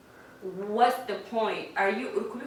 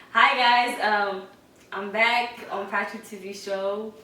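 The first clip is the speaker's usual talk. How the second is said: louder, slower greeting; speaking louder; 8 dB louder, slower than usual. Shown as a demonstration. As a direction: project it to the back. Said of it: "Speak louder".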